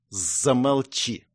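slow, venomous hiss; angry hiss. A narrator's reading. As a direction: spit it out slowly in anger. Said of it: "зло прошипела".

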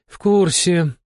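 high, brusque curator; sharp, curt. A narrator's reading. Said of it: "резко бросила кураторша".

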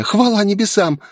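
high, glad thanks; girl's high happy relief; relieved. Acted. Girl relieved.

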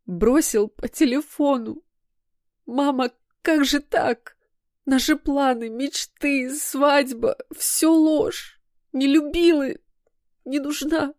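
high, slow, tearful wail rising to a cry. Acted. Daughter wails to her mother about the breakup. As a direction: wail it out, heartbroken and betrayed. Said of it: "провыла".

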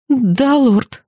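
a hint of squeezing the words out; timid, reluctant reply; forced out. Scared student answering the demon lord, forced out mildly. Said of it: "выдавила я из себя".

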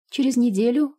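high, loud sobbing reply. A narrator's reading. Медсестра, которую увольняют, отвечает профессору со всхлипом. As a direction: whimper it out tearfully. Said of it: "всхлипывая".

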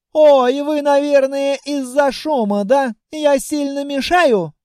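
put-on high, slow, girlish dragon voice; a lonely, polite young dragoness; shy dragoness. A narrator's reading. Dragoness talking to the hero, high girlish voice.

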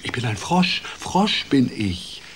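a hint of a croaky frog digging in; stubborn frog. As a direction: frog denying he is a prince, mildly stubborn. Frog insists on being a frog.

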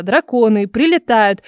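slow, word by word, syllable by syllable; spelled out slowly. Acted. Tired Vera spelling it out slowly for Elsa. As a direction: spell it out for a friend who won't get to the point. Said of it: "Давай по слогам, пожалуйста".

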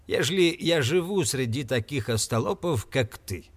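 plain reading voice

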